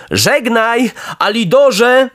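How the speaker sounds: high-pitched farewell call. A narrator's reading. Pinokio swims off and calls to the dog, high farewell cry. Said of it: "krzyknął".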